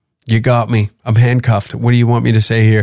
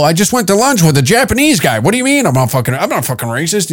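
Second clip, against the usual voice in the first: mock defensive rant; 5 semitones higher, faster than usual.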